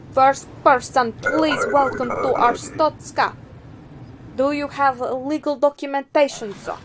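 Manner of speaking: formal border officer, measured delivery; border inspector. Acted. Inspector greets the first entrant at the booth, formal put-on voice.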